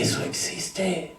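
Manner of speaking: casi susurrado, lento, con asombro; asombro callado. Retold or imitated. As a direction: decirlo despacio y muy bajo, maravillado. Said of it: "Yo dije". (recuerda su asombro ante el don, muy bajo y lento)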